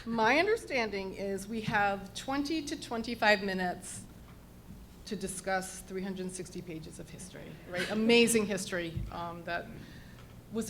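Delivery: projecting teacher voice. Real, not acted. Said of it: "I'm putting my teacher voice out there".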